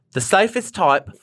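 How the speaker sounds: British accent slipping into Australian; British accent attempt. Shown as a demonstration. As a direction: attempt British but land on Australian vowels. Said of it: "that's Australian".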